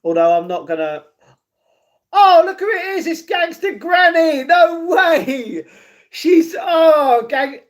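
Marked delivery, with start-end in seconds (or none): 2.1-7.6 high, loud, thrilled exclamation; excited surprise. Real, not acted. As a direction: shout it out as a real delighted discovery. Spots Gangster Granny, real surprise.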